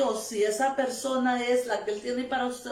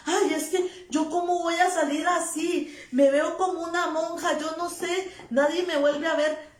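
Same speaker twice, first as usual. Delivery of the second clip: higher, mocking complaint of a young woman; mock whiny girl; 4 semitones higher than usual. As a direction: parody a worried girl fretting over her looks. (imitación burlona de una joven quejosa, voz más aguda)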